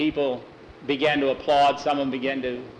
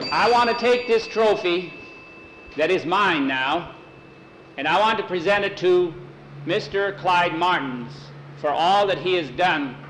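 acceptance speech; 3 semitones higher than usual. Acted. Winner makes a public speech.

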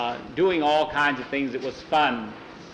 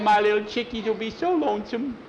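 high put-on lament; very high, pleading character voice; plaintive Juby character; 8 semitones higher than usual. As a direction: worry in a squeaky little voice. Juby worries about chickens.

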